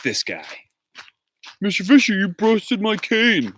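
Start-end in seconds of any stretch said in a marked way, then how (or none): 1.6-3.5 mock yell. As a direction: imitate an indignant accuser, pitched up. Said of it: "he yells at me".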